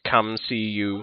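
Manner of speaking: slow, lightly voiced Yoda-like creature; Yoda-esque metallic voice. Shown as a demonstration. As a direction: repeat it slowly, a hint of Yoda. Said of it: "like a Yoda-esque".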